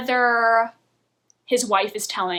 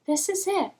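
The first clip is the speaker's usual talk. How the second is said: flat monotone; 7 semitones higher, 4 dB quieter than usual. Shown as a demonstration. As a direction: say it lifeless and flat. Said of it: "It's all just like this".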